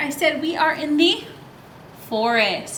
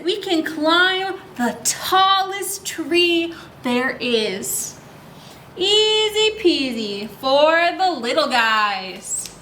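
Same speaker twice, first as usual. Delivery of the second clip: put-on reading to children; much slower than usual. A narrator's reading. Reads book lines to kids.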